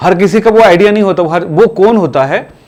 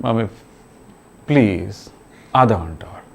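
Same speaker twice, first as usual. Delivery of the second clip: sleepy pleading; 10 semitones lower, 10 dB quieter than usual. Retold or imitated. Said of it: "बोलते हैं".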